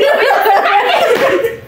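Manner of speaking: burst of laughter. Real, not acted. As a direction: crack up fully. After retelling the fall.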